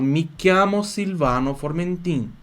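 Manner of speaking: slow Italian "Mi chiamo Silvano Formentin"; slow demonstration. Shown as a demonstration. Teacher introducing himself in Italian for students, slow demonstration. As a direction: model "Mi chiamo Silvano Formentin" slowly, with clear syllables. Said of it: "Como é que eu falo meu nome?".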